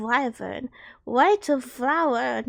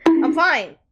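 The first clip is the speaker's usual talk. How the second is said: crying, pleading; 2 semitones higher, 5 dB louder than usual. Real, not acted. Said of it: "Oh, I'm still crying".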